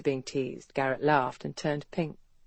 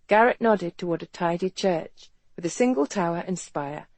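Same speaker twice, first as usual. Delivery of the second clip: ordinary delivery, nothing marked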